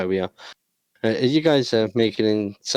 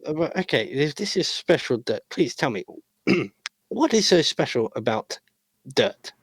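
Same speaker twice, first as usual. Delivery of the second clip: skeptical nasally clerk; 4 semitones higher than usual. Acted. Legionnaire questions special dirt.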